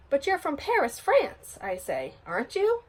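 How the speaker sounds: baffled, asking for reassurance; a kid suddenly mixed up; confused surprise. Acted. Nancy realizes confusion.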